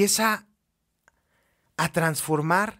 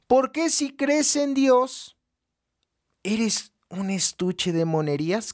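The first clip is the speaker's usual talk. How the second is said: building rhetorical reproach; 5 semitones higher than usual. Real, not acted. Escalating rhetorical reproach to believers.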